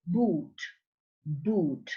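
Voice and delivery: "boot" with both lips closing on B; slow, separate "boot" as a falling drill word; bilabial B. Shown as a demonstration. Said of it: "that is bilabial".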